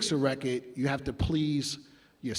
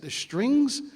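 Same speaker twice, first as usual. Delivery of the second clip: high, disbelieving question; incredulous; 10 semitones higher than usual. Retold or imitated. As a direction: ask it like it's obvious.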